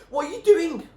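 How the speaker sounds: loud, high alarmed shout. A narrator's reading. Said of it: "Doobie shouted at her".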